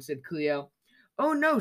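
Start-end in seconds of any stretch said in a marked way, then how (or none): 1.2-1.6 high startled oh no; mild storybook shock; shocked cry. A narrator's reading. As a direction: squeal it in shock. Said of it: "she cried".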